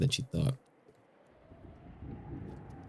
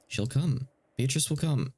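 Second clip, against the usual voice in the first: put-on insistent child; 5 semitones higher, slower than usual. Maria insists the witch comes.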